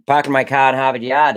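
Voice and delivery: lightly imitated Boston accent turning Oklahoman. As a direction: start in a dad's Boston accent, drift toward Oklahoma. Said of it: "my dad's from Boston, my mom's from Oklahoma".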